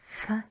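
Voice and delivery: F said alone as in "fabulous"; Welsh F sound. Shown as a demonstration. Teacher sounding out letters for learners, F as in fabulous. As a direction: sound out F on its own. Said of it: "as in fabulous".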